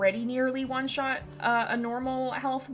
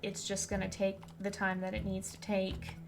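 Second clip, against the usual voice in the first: softer, tender reassurance; gentle sincere advice; 5 dB quieter than usual. Real, not acted. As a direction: speak gently to someone grieving. Gentle advice to grieving viewers.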